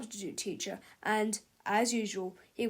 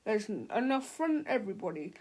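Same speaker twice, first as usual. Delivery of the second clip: salesman voice; faster than usual. Acted. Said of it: "said Mister Snoddy".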